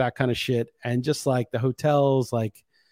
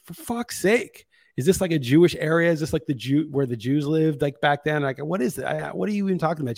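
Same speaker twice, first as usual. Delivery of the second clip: exasperated rant; 4 semitones higher than usual. Retold or imitated. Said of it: "And I'm like".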